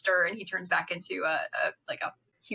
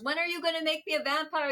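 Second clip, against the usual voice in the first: put-on pleading old man; 9 semitones higher, faster than usual. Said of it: "he goes".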